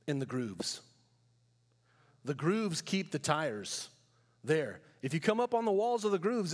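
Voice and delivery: a hint of a patient Canadian farm boy explaining; lightly voiced farm boy. Farm boys giving advice.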